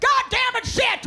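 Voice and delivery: high, loud exasperated swearing; hammed-up frustrated cursing; mock angry outburst. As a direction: snap at the clumsy kid. Teacher swearing at dropped papers.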